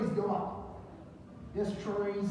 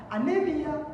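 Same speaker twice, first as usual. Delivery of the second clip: emphatic call; 7 semitones higher, 4 dB louder than usual. Real, not acted. Teacher drills anemia emphatically.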